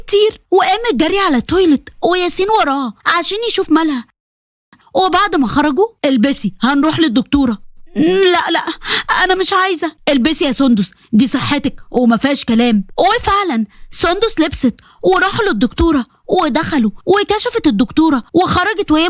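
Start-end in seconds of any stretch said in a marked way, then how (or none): 6.1-12.8 lightly lowered husband, firm; a hint of a worried husband insisting; Yasin's voice. Husband urging his sick wife to the doctor, firm and low.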